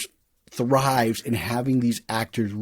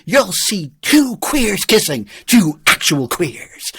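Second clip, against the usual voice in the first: carnival barker; 7 semitones higher, 4 dB louder than usual. Retold or imitated. Imitates Lochary's barker luring people into the tent. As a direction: drag it out like a sideshow pitchman. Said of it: "he's the barker".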